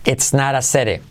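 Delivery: It's not a city with flapped naɾ, seɾe; flapped t version. Shown as a demonstration. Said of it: "Mirad la diferencia".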